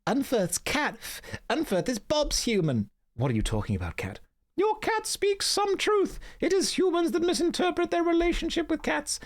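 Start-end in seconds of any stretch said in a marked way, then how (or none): 0.1-2.9 very high, squeaky wise woman; a shrill mystical hermit greeting; Hild voice. Acted. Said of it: "I'm also voicing every character". 4.6-9.2 very high, squeaky wise woman; a shrill mystical hermit greeting; Hild voice. Acted. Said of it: "I'm also voicing every character".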